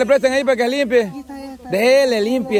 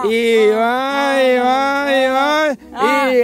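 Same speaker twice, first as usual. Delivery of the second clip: put-on feeding a baby; 3 semitones higher, slower than usual. Here comes the airplane spoon.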